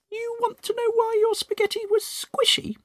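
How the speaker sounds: high, sly whispered tease; gloating whisper. Acted. Missus Twit taunting her husband, high gloating whisper. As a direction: whisper it like a secret you can't wait to spill. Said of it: "Then she said".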